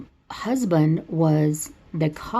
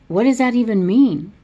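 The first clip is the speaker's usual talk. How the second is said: puzzled Hubie; 5 semitones higher, 6 dB louder than usual. Retold or imitated.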